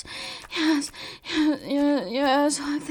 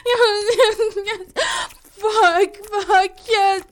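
loud ecstatic cries; 2 semitones higher, 5 dB louder, slower than usual. Acted. Loud cries, shout heard.

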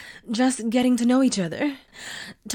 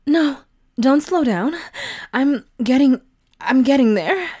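louder, breathless urging; urgent pleading; 3 semitones higher, 5 dB louder than usual. Acted. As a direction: push him on, getting louder. Building toward climax.

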